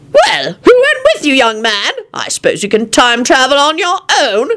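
a hint of a puzzled man; lightly voiced puzzled adult; puzzled Lupin. A narrator's reading. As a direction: ask it baffled. Lupin questions the boy.

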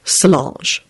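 long-suffering. Acted. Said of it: "in a long-suffering voice".

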